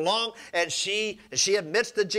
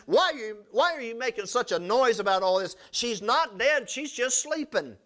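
Jesus questioning mourners; 5 semitones higher than usual. Acted.

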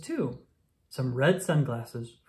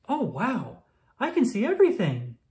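higher and louder, thrilled exclamation; delighted child; 6 semitones higher, 4 dB louder than usual. Acted. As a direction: burst out with joy at seeing clearly. Ella sees clearly at last.

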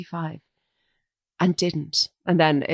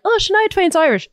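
higher, mockingly eager; mock proud claim; 13 semitones higher, 3 dB louder than usual. Mocking how the Irish claim celebrities, higher mock enthusiasm. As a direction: parody the Irish boast in a lifted voice. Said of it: "We're like".

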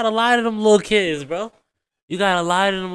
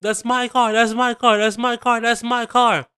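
higher, repetitive mock of the girlfriend; mocking her whine; 5 semitones higher than usual. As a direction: parrot her like a broken record. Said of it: "you just sitting over here".

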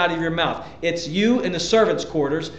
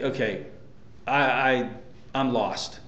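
low, soft admission of being lost; quietly bewildered; 7 semitones lower, 9 dB quieter than usual. Acted. Listener lost around a more educated person, quietly bewildered. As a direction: trail along softly, out of your depth.

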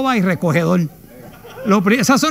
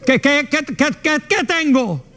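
panicked stammer; 4 semitones higher than usual. Retold or imitated. Frozen person stammering.

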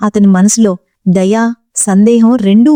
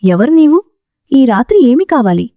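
suspicious; 4 semitones higher than usual. Acted. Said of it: "సందేహంతో అడిగాడు".

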